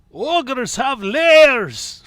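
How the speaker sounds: loud, high, drawn-out mock ogre cry; hammed-up ogre movie quote; ogre outburst. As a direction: bellow it slowly like an exasperated ogre. Mimicking a film ogre's line.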